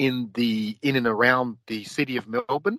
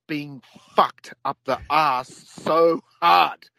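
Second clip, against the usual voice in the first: slow, raised, mock disbelief; incredulous foreigner; 4 semitones higher, slower than usual. Overseas onlookers asking Australians why, slow mock disbelief. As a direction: drag it out like a baffled outsider. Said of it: "They're like".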